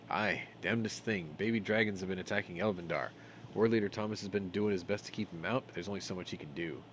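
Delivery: lightly voiced dwarf passing on news; hint of a fantasy dwarf; concerned dwarf. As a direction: recount the troubles as a dwarf.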